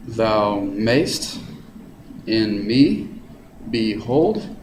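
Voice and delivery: "Thou mayst in me behold" with weight on mayst and me; measured, rising beats on each pair; iambic reading. Shown as a demonstration. Teacher reads Shakespeare line to show iambic stress. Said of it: "It's written in iambic pentameter".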